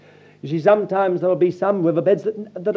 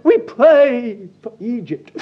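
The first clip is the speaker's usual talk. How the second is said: mock falsetto prayer; 2 semitones higher, 5 dB louder, slower than usual. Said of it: "in a high falsetto, quavering note".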